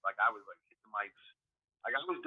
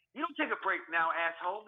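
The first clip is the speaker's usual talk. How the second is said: higher-pitched mock scolding; retold scolding; 5 semitones higher than usual. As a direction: replay telling off a slacking coworker.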